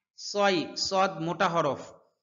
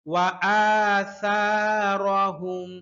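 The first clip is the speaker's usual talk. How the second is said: slow tajweed chant; Quran recitation; much slower than usual. Shown as a demonstration. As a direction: recite the verse slowly and evenly. (ধীর সুরেলা তিলাওয়াত)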